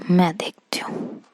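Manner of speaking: soft unvoiced challenge; threatening whisper. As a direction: dare her under your breath. Friend threatens to come anyway. (फुसफुसाकर धमकी)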